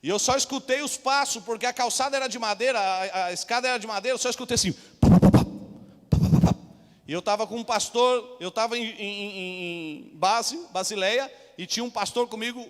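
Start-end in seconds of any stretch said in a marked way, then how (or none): 4.7-6.6 loud thudding footstep sounds; imitated footsteps. Police climbing the wooden stairs, loud thuds. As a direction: stomp out the boots on the stairs.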